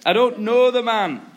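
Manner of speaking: loud, high acted outburst; vehement denial. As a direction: throw the denial out forcefully. Peter's final, strongest denial.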